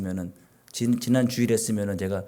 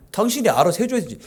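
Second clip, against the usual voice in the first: vague Chungcheong hint; 8 semitones higher, 3 dB louder than usual. Retold or imitated. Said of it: "두리뭉실 얘기해놓고서는".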